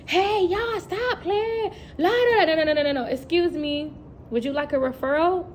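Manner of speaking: high, hammed-up teacher scolding the class; mock frazzled teacher. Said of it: "It's not no".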